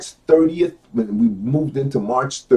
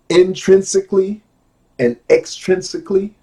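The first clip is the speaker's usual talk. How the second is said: deliberate, raised-pitch word presentation; measured emphasis on each term; careful reading; 5 semitones higher, 4 dB louder than usual. Shown as a demonstration. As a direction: set out each hard word separately. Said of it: "take my time and go slow".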